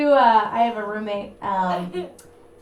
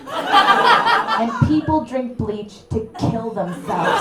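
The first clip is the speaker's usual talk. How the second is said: slow, loud comic rant; 3 semitones higher, 4 dB louder, slower than usual. Real, not acted. Comic ranting at the guy's fish joke, slow and loud. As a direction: lecture them, hammering each point.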